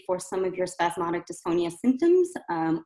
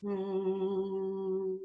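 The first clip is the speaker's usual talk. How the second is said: soft relaxed hum; released hum; 8 dB quieter than usual. Shown as a demonstration. Coach demonstrating a released easy hum. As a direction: hum with everything let go. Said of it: "trying to really release all that".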